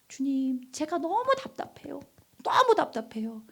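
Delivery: soft, anguished prayer; earnest pleading. Acted. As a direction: plead softly with the Lord in frustration. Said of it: "간절하게 부르짖어 본 적". (답답함을 여리게 토로하는 기도)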